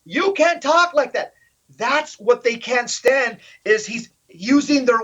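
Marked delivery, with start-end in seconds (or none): 0.0-1.3 lightly imitated indignant objection; mock protest. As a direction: raise the pitch in mock objection. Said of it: "and they're saying".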